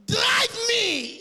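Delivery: high, loud urgent plea. Retold or imitated. Father begging his son to drive the car home, high and urgent. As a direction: beg to be driven.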